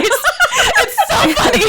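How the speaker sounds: high gleeful mock Anthony. Anthony gloating over Kate's anger, high and slow. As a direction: drag out the delight in a high squeak.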